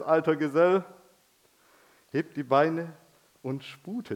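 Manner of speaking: measured, rhythmic Christmas poem read; storyteller reciting Knecht Ruprecht; poem recitation. Acted. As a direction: recite it like a Christmas verse for the children.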